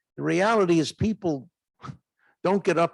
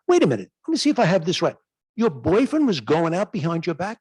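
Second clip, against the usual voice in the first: rapid, incredulous double-check; rattled off fast in mock disbelief; mock surprise; 3 semitones higher, 4 dB louder, faster than usual. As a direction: feign shock to draw her out. Doctor retells his surprised reply.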